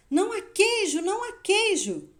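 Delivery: repeated high, loud cries; Hen. A narrator's reading. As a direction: shout it out in protest, pitch way up. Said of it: "ele continuou a gritar". (gritos agudos de protesto)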